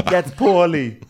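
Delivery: high, laughing through the words. Retold or imitated. Retelling Dorinda's exit line, laughing high. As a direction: giggle out the line. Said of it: "walking down the hall going".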